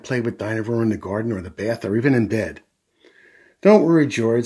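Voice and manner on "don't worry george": lifted, louder comforting voice; mother brightly consoling; bright reassurance. A narrator's reading. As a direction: cheer up a small child. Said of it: "says Mummy Pig brightly".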